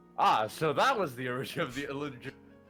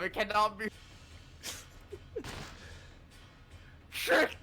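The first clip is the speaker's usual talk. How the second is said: put-on Southern accent; 6 semitones higher than usual. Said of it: "he Southern or is he Scottish?".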